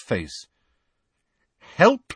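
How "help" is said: high, tight, rising question; constricted voice. A narrator's reading. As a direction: repeat it as if choking on outrage. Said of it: "she repeated in a constricted voice".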